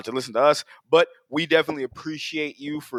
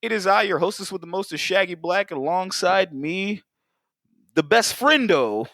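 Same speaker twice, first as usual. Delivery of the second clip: booming showman announcer intro; raised pitch, like a circus ringmaster; 5 semitones higher than usual. Acted.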